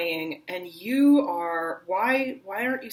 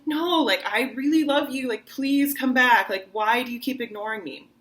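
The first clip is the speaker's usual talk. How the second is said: higher, louder pleading; desperate plea; 5 semitones higher, 4 dB louder than usual. Shown as a demonstration. Teacher acts a lover begging an ex to return, higher and louder. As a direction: beg them to come back. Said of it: "and you're like".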